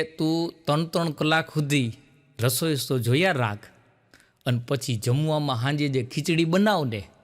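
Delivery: husband answering his wife's question, lightly voiced, low and deadpan; husband's dry retort. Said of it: "એનો ઘરવાળો કે".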